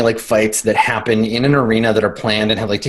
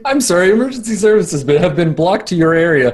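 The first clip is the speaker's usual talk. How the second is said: higher-pitched recorded phone message; automated message voice; 5 semitones higher than usual. Acted. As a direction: read it like an automated hotline. Automated emergency services message.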